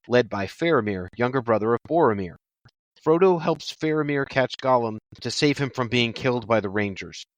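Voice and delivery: even, measured plot-summary reading; synopsis read-aloud. Real, not acted. Host reading part three to co-hosts, measured read-aloud. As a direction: read the synopsis evenly, phrase by phrase.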